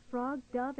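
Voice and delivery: ordinary delivery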